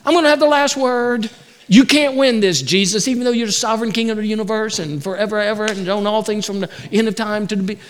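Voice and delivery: mock Peter talking back, quickening; hammed-up know-it-all rebuttal; cocky retort. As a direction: Peter mockingly arguing with Jesus, cocky. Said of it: "saying that his words are greater".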